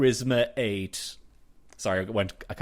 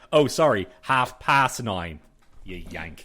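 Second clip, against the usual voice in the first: mock apology; 5 dB louder, slower than usual.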